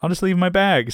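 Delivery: high-pitched mock female voice; imitated woman. Girl declining to go up to the apartment, imitated high voice. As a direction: pitch it up as the reluctant girlfriend. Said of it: "She's like".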